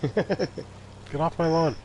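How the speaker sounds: put-on high, slow cranky old-timer; grumpy old man. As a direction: shake your fist at the kids. Repeats line as grumpy cliché.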